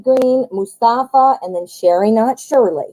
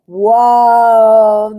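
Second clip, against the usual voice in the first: surprised; 7 dB louder than usual. Real, not acted. Reacting to the drawn card.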